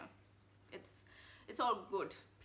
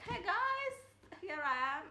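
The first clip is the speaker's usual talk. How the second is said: mock timid greeting; 10 semitones higher, 5 dB louder, slower than usual. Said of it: "I don't have to be like".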